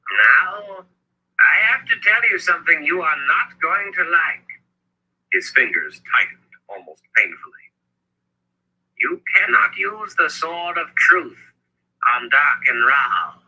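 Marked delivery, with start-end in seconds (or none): 0.1-4.6 high-pitched elder giving a grim warning. A narrator's reading. Zed preparing his friend Richard for bad news, grim warning. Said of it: "set in grim warning". 9.0-13.4 high, slow, deliberate elder's voice; Zed's grave warning. A narrator's reading. Zed forbidding Richard the sword against Rahl, grave warning.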